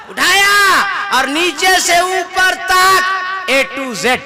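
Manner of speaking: high laughing yell, slow and stretched; slow high laughing build; laughing shout. Real, not acted. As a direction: laugh it out at the punchline. Laughing climax of beating story.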